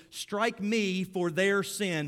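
loud and slow, each word weighed; God takes the blow, spoken big and slow; slow solemn command. Acted. God offering himself to Moses, slow loud solemn.

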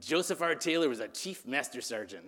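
lightly voiced cartoonish sergeant; a hint of self-important military rank; Joseph R. Taylor. Preacher mimics how his bandmate talked, lightly puffed-up voice. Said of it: "That's how he talked".

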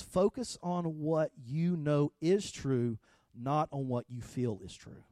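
very slow and deliberate, each word weighed; slow quoted maxim. Retold or imitated. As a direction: lay out the maxim slowly. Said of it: "He says".

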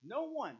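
high, emphatic declaration; resounding. Real, not acted. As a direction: ring out NO ONE with conviction. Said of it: "And the answer is resounding".

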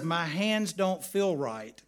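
slow, mildly plaintive imitation of a little boy; lightly mock a tearful kid's complaint; retold crying child. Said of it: "and he's crying".

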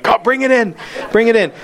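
urgent high-pitched command into the phone; Jack Bauer. Retold or imitated. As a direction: play the action hero calling it in. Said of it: "I was Jack Bauer for a moment".

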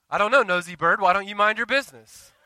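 joking imagined retort to a nosy friend; mock sassy retort. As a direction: snap back at the nosy friend in jest. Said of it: "I didn't tell him that".

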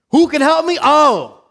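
very high, loud cry; yell. Retold or imitated. Paul crying out for help, a very high loud yell. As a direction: yell it up high at full volume. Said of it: "And he yells out".

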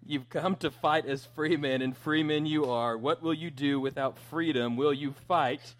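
put-on rally the troops like Braveheart, but no Scottish accent; William Wallace rallying speech. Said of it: "I'm trying to not do the accent".

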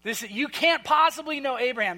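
mocking, incredulous jab at Jesus; scoffing Pharisee, dripping sarcasm; sarcastic. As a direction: sneer it like a cutting put-down. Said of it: "Okay, this is sarcasm".

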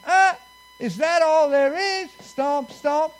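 loud, high mock scoff at a tiny blade; disappointed farmer. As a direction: scoff like a let-down farmer, then stamp it out. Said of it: "and he says".

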